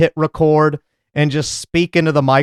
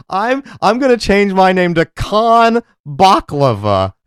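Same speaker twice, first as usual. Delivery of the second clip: mock waiter joke; 4 semitones higher than usual. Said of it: "Get it, guys?".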